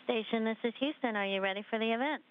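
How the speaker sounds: thin, distant radio voice; over a space radio link; sci fi communicator. Real, not acted. Mission Control calling the station.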